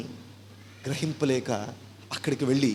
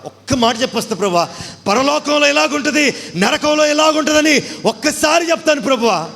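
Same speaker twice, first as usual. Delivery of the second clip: desperate wailing plea, much higher and louder; rich man crying out; 9 semitones higher, 6 dB louder than usual. Acted. Rich man in hell begs God, wailing plea. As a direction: wail to God for your brothers. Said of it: "అని దేవుడికి మొరపెడుతున్నాడు".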